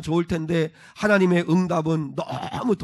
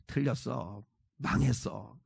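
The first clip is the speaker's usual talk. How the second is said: low, soft resigned mutter; defeated grumbling; 5 semitones lower, 10 dB quieter, slower than usual. Acted. Believer speaking carelessly despite God, in a low defeated mutter. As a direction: give up under your breath.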